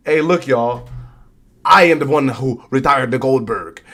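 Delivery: badly faked accent of a wrestler; hammed-up bad accent, wrestler's boast; bad Gunther accent. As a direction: attempt a foreign accent, badly. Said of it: "that was a pretty bad accent".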